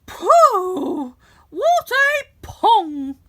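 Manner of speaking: loud high shriek, very slow; harp shouting. A narrator's reading. Magic harp shouting to wake the giant, loud and high. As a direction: yell out in disgust. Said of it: "the harp shouted".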